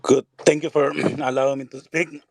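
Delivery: hoarse, failing voice; hoarse and clearing the throat; losing voice. Real, not acted. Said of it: "I'm losing my voice".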